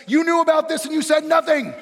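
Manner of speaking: loud, high, laughing accusation; mock outrage. Pastor teasing the congregation with loud mock outrage. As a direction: scold them in jest, half laughing.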